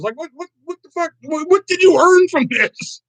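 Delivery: high, slowing what did you earn; incredulous rant. Real, not acted. Vlogger ranting to chat about mom's cheating, high outrage. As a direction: press the question, baffled and outraged.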